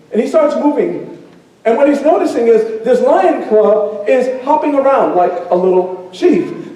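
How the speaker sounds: lively storyteller narration with swelling pitch; animated storytelling. Acted. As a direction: tell it vividly to a crowd, savoring the surprises.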